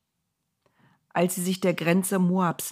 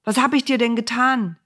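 pleading donkey; 7 semitones higher, 5 dB louder than usual. Acted.

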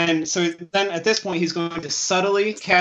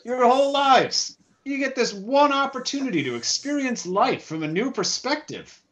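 mock-outraged disbelief at your friends; incredulous; 4 semitones higher than usual. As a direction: scold them in disbelief, swinging higher on the complaint. Acted in-character disbelief at friends.

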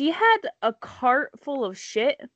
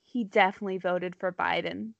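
lower, softer and quick, mock resignation; retold sigh; 3 semitones lower, 5 dB quieter, faster than usual. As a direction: imitate a sighed parting jab, understated. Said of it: "she sighed and said".

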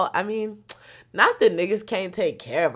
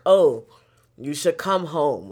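mom's text voice; 8 dB louder, slower than usual. Retold or imitated. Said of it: "they don't really text you".

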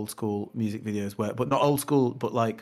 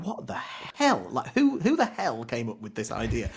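incredulous; slower than usual. Retold or imitated. Quoting own reaction to video.

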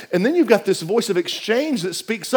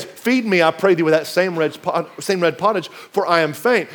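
weary Esau; 4 semitones lower, 3 dB quieter than usual. Acted. Pastor retelling Esau's plea to Jacob, faint and drained. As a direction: lower and softer, a faint hungry plea. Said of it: "he says".

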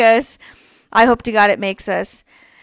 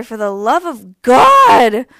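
louder and slower, dragging out God; exasperated plea; 7 dB louder, slower than usual. Real, not acted. Podcaster begging listeners to stop the violence, loud exasperation. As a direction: plead loudly, at the end of your rope.

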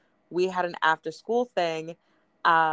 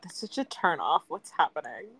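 teen girl mimic. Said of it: "I love how you're in eighth grade talking about".

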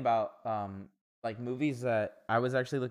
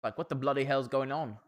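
put-on British accent; lightly mocked British accent. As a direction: play at being British. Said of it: "doing the British accent".

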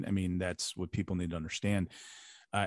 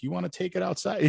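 retold challenge; 9 semitones higher than usual. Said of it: "and I'm like".

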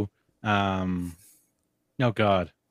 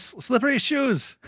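Data voice, slower; 12 semitones higher than usual. Retold or imitated. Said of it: "naming Data's gadget".

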